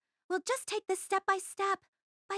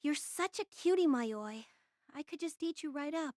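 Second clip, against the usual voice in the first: put-on baby talk; 3 dB quieter than usual. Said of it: "uses baby talk with dogs and cats".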